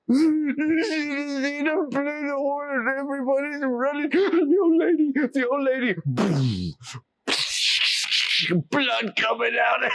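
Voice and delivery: high, laughing through the words; a boy delighted with his prank; gleeful. A narrator's reading. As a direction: giggle while telling it. Oliver gleefully recounts prank.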